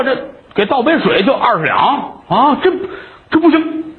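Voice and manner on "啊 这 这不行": higher, stammering with a nervous laugh; shy young man pushing money back; flustered refusal. Acted. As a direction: laugh it off awkwardly.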